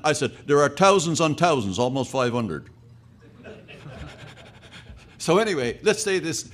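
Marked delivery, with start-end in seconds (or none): 0.5-2.7 put-on joking Newfoundland accent, th as t; Newfie accent. Newfie boasting of Newfoundland's population, in Newfie accent. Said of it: "have an accent like a newfie".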